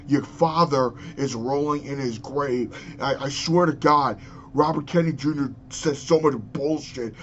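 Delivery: real exasperated ranting; angry rant. Real, not acted. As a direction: let the outrage boil over. Rant against RFK Junior.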